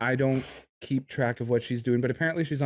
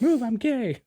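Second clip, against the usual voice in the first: mock proud shout; 11 semitones higher, slower than usual. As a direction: shove them aside, proudly. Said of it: "Be like".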